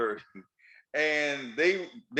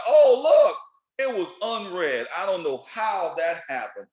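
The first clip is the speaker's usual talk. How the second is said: mock innocent surprise; 5 dB louder, slower than usual. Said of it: "you're like".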